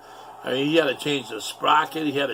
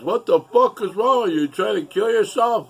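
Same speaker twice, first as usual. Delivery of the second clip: mock alarmed yell; 8 semitones higher, 6 dB louder than usual. Father yelling at smoke-filled garage.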